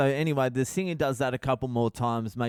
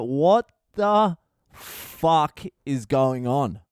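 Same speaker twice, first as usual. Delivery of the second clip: baffled; 4 dB louder, much slower than usual. Retold or imitated. Reacting in disbelief to singer.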